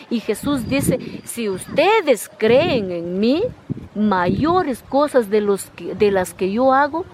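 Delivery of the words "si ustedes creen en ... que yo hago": slow, weighty words of Jesus; slow, reverent delivery of a holy promise; solemn slow quote. Acted. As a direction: lay each phrase down slowly like scripture.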